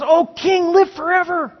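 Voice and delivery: high, reverent greeting to the king; deeply respectful. Acted. Daniel answering the king from the den, reverently. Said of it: "loaded with respect".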